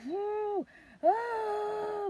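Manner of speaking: high, drawn-out whoo and ah; restrained labor moan. Retold or imitated. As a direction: moan through it without screaming. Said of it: "still not hollering my lungs out".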